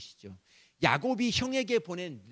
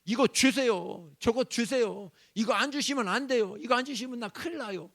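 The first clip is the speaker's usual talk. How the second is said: 더 크고 높게 떼쓰며 조르기; 어린애처럼 졸라대듯; 조르는 기도; 7 semitones higher, 7 dB louder than usual. Retold or imitated. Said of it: "협박 아닌 협박을 해요". (성도가 하나님께 떼쓰며 조르는 말투)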